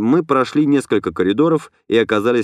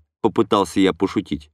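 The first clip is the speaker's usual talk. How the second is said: ordinary delivery, nothing marked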